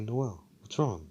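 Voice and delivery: softly sincere retold question; lightly acted sincere voice. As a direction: ask gently, with mild concern. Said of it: "Like, in a sincere voice".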